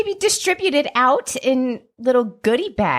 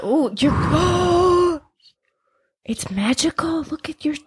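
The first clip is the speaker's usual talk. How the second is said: ordinary talk, nothing marked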